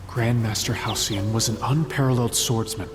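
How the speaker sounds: measured storytelling voice over music; grave, unhurried storyteller recounting the sect's past; story narration. Acted. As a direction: tell the legend like a chronicle. Tells the sect's history over music.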